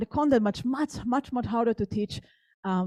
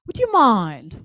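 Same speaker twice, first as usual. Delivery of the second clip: put-on British accent; slower than usual. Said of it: "with this British accent".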